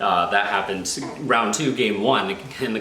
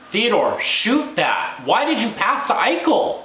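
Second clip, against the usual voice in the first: high, loud yell at the TV; frustrated yelling; 12 semitones higher, 4 dB louder than usual. Real, not acted. Fan yelling at a defenseman who passed, high frustrated yell. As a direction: scream at the player to shoot.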